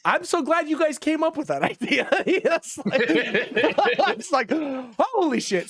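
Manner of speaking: high, laughing sarcastic thanks; laughing sarcasm. Real, not acted. Telling viewers about the landlord's credit, laughing sarcasm. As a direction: laugh through the mock gratitude.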